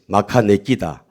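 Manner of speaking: Gyeongsang-accented call for the congregation; Gyeongsang dialect. Shown as a demonstration. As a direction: lead the repeat with a Gyeongsang accent. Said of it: "경상도 버전으로".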